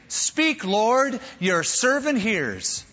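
high, eager reply, slowing at the end; young Samuel answering God; little boy answering. Acted. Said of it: "this little boy responded instantly".

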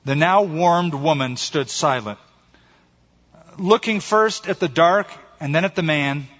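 measured storytelling with weighted pauses; story narration. A narrator's reading. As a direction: read it like a solemn fable. Reads a short story aloud.

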